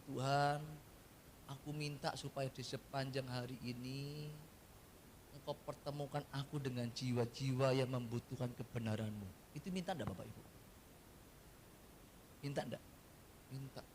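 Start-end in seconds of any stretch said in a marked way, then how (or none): 0.1-9.3 soft, earnest example prayer; humble prayer. Shown as a demonstration. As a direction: pray it gently and sincerely. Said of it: "Contoh begini". (doa yang lembut dan tulus)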